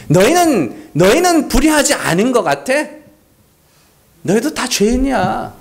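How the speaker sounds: mildly mocking challenge; acted, needling reproach; sarcastic rebuke. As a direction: question their self-righteousness with light sarcasm. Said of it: "예수님이 하신 말씀이 똑같은 거예요".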